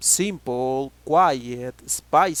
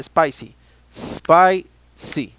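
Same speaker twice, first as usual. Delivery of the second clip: loud drilled word; 9 dB louder, much slower than usual. Shown as a demonstration. Teacher drills word aloud.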